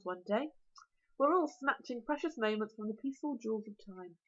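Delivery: lightly voiced dragon, cheerful and musing; a touch of a jolly philosophising monster. Dragon lectures his supper, mildly cheerful. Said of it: "said the dragon cheerfully".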